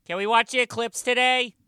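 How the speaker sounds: put-on very high, loud child's voice; eager schoolkid. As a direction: pipe up like an excited pupil. Pupil Rory asks the teacher.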